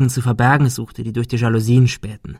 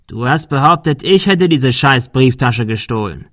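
menacing accusation; 2 semitones higher, 4 dB louder than usual. Acted. Thug accuses girl.

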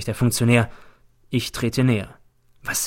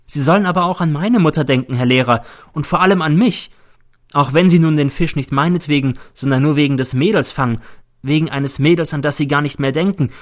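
lightly voiced pupil, louder and higher; reproachful pupil; 4 semitones higher, 5 dB louder than usual. Pupil reminds teacher of his own mother, reproachful. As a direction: urge the teacher to think of you, reproachfully.

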